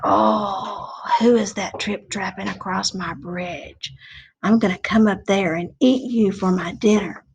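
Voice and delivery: low menacing troll. Acted. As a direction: growl it like a bridge troll. Troll voice in story.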